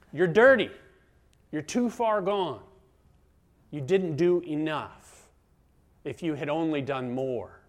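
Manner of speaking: accusing voice. Acted. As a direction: pronounce each fault as a verdict. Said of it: "recognize that voice".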